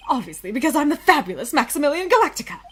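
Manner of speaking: fast, loud, preening brag; vain boast. Acted. Circus star brags to the lawyer, fast and loud.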